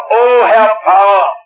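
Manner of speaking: lightly voiced Swabian, smug and content; a hint of a self-satisfied Swabian local; Swabian parishioner. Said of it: "Da sagte". (leicht schwäbischer, selbstzufriedener Gemeindemann)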